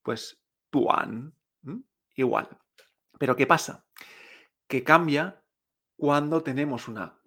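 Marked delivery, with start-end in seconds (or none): 0.7-1.3 TUAN with soft t, open Spanish a; soft-t pronunciation. Shown as a demonstration. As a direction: model TUAN in dipping third tone. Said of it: "la D es una T suave".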